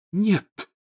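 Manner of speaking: high, defiant snap; defiant ghost girl. A narrator's reading. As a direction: toss it back defiantly. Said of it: "вызывающе ответила Миртл".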